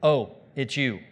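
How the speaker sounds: mock-indifferent, low-key recognition; mildly acted nonchalance; unimpressed. Repeats the unbothered greeting to devil.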